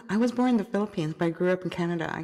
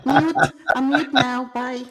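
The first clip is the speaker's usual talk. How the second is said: playful exclaim; 4 semitones higher, 5 dB louder than usual. Real, not acted. Joking exit, muting mic.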